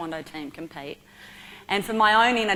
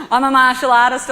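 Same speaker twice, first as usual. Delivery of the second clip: mock bravado; 6 semitones higher, 13 dB louder than usual. Retelling her bravado.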